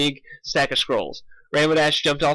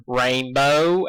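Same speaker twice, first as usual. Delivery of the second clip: stern. Acted. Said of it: "A J said sternly".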